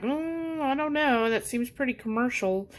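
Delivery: hesitant. Retold or imitated. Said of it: "I was really hesitant".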